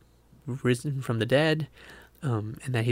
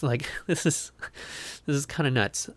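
laughing. Real, not acted. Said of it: "sorry, I don't mean to laugh".

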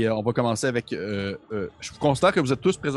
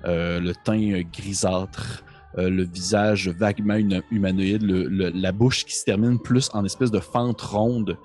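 game master narration; 3 semitones lower than usual. Acted. Game master sets the boss scene.

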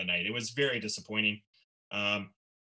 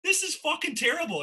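disgusted aside. Retold or imitated. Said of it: "And I'm like".

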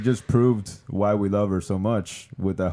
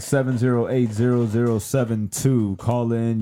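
radio DJ voice; slower than usual. Pretend. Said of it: "Why am I talking like a radio D J?".

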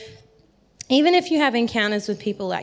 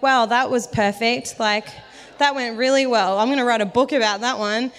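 wry mock self-congratulation; imitating a sarcastic inner voice; sarcastic self-mockery; 2 semitones higher, 3 dB louder than usual. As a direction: praise your own flop with heavy irony. Mocks own failed attempt.

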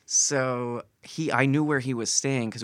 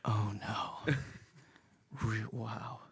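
stunned reaction; 10 dB quieter, much slower than usual. Retold or imitated. Keanu stunned by the confession.

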